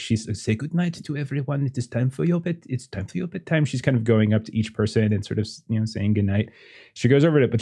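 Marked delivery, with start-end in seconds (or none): 0.4-3.6 lightly voiced French parent, higher and softer. Parent telling the child it's bedtime, lightly voiced.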